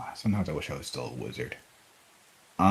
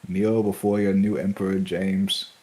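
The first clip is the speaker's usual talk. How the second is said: booming arrogant alien overlord; slower than usual. Acted. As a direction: proclaim it like a conquering overlord. Player declares himself dragon's emperor.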